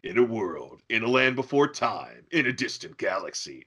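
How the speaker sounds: mock epic trailer narrator; dramatic movie trailer voiceover; grand booming space narration. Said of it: "a crazy version".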